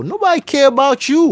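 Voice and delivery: yelled high and loud in outrage; furious high yell; angry shout. Real, not acted. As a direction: shout it back, fed up. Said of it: "I'm getting pissed".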